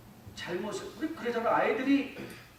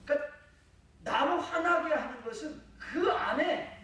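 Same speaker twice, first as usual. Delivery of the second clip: ordinary talk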